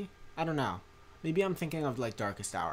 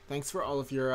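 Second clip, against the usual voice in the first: sarcastic; 4 semitones higher, 3 dB louder than usual. Real, not acted. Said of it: "that sounded really sarcastic".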